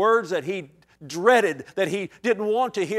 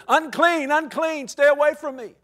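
higher, louder warning cry; leper yelling; 8 semitones higher, 5 dB louder than usual. Acted. Outcast leper warning passers-by, yelled out. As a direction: call it out across the distance. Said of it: "He has to yell out".

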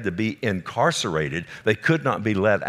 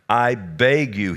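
a slow, louder plea; demon begging; 4 dB louder, slower than usual. Retold or imitated. Preacher voicing the demon begging Jesus, slow and louder. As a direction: beg like the cornered demon. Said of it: "the demon".

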